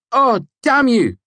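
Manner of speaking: weak laughing curse. A narrator's reading. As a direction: Simon cursing Kvothe after the fake scream, slow relieved cry. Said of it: "he said weakly, laughing".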